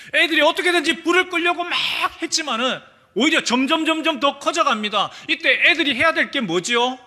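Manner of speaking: high, loud and fast as the fire grows; urgent storytelling. Acted. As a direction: tell it with rising panic. Excited story of kitchen fire.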